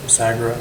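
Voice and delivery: Sagra with a rolled Italian R. Real, not acted. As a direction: trill the r in Sagra. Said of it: "I don't know why I'm rolling my R's".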